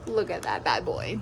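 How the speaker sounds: deep, drawn-out food hype; low slow voice. Pretend. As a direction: drop low and savor each word. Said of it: "The O Gs knows I talk like this".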